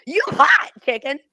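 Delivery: retold street catcall; imitated catcalling man. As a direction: act out a stranger's come-on, loud at first. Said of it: "this man comes up to me and goes".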